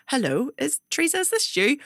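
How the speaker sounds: imitated tentative video-call hello; therapist calling out. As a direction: check who's there, voice lifting high. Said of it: "I could just hear her going".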